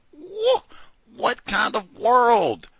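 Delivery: high loud whoa, slow what kind of world; stunned whoa. Real, not acted. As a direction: marvel in dismay. Dismay at AI scams.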